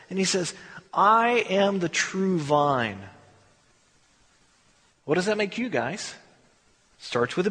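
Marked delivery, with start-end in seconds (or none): 0.9-3.0 solemn Jesus. Acted.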